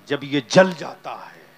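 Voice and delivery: loud fervent echo on जल. Acted. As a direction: press जल hard and loud. Preacher echoes phrase, then softens.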